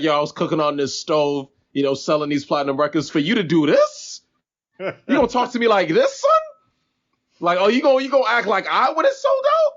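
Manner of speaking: rising, high, indignant imitation; mock hurt rapper. Mocking a rapper complaining about being called a capitalist, hammed-up indignant. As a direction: play up his wounded pride. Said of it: "he's like".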